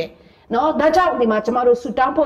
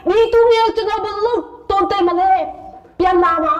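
Manoah begging God, higher; pleading prayer; 5 semitones higher than usual. Acted. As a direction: plead upward like a worried father. Preacher voices Manoah's prayer.

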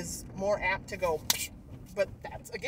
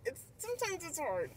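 sometimes it's hard said softer and falling; softer second take; 8 semitones higher, 8 dB quieter than usual. Real, not acted. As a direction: let it drop, softer, almost to yourself. Repeats the phrase twice.

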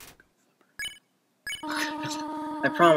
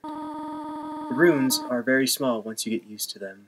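gentle sad Toriel. Acted. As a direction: read it like a sorrowful mother. Reads Toriel's lines in a voice.

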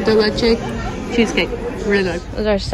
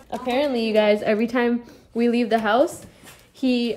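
ordinary talk

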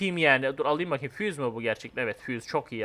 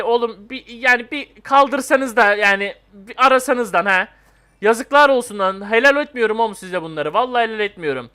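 annoyed scolding; 3 semitones higher, 6 dB louder than usual. Real, not acted. Gamer scolding idle teammates, loud exasperated telling-off.

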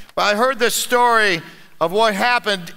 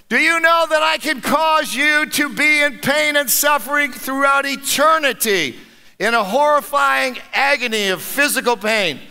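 a hint of a menacing devil, higher; lightly voiced Satan; 5 semitones higher than usual. Satan threatening the calm old man, mildly menacing. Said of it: "asked Satan".

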